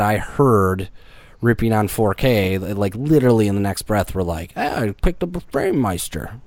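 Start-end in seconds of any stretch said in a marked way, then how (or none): 4.6-6.4 mocking high voice. Mocking people who rip on 4K.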